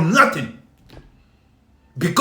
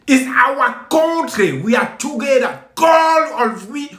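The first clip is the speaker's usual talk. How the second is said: raised, rousing call to his countrymen; rallying shout; 5 semitones higher than usual. Real, not acted. Patriot rallying fellow Cameroonians, a raised rousing shout. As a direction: lift the voice and rally the crowd.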